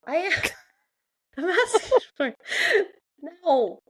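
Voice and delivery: giggling mock confession; laughing. Real, not acted. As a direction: laugh while stretching it out slowly. Echoing tease while laughing.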